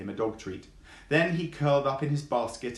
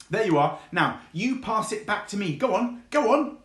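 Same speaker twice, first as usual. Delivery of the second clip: high, bouncy fox voice, much higher than the narration; cheeky fox; 9 semitones higher, 6 dB louder than usual. Acted. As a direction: play the cheeky young fox, pitched up. Fox teasing the dog.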